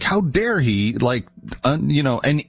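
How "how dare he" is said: mildly indignant, drawn-out retort with swooping pitch; mock seething. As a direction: imitate an offended leader, slow and only mildly heated. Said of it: "like, seething".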